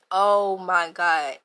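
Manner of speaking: slow, drawn-out disbelief; seeing dad with a gun, slow stunned gasp. Retold or imitated. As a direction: stretch it out in shock. Shocked at dad's gun.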